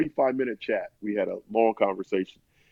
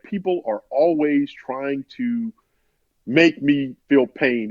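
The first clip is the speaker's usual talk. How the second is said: slow, measured mock anger, building; getting angry; slower than usual. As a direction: act out someone starting to seethe. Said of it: "he starts to get angry".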